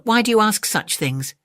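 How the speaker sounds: sweetly polite little animal; elephant's child voice. Acted.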